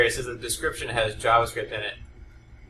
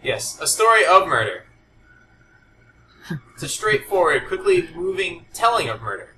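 mock dramatic reading; 4 semitones higher than usual. Shown as a demonstration. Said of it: "dramatic reading".

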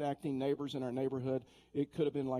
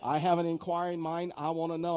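insistent mock demand; 2 semitones higher, 4 dB louder than usual. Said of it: "She goes".

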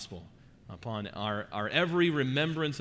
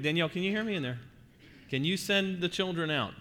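raised voice to another room; calling down a hallway; 6 semitones higher than usual. Real, not acted. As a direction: call out to someone far off.

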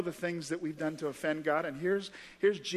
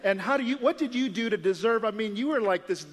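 mock-baffled interrogation, climbing in pitch; incredulous questioning; 4 semitones higher than usual. People in heaven question the criminal, incredulous.

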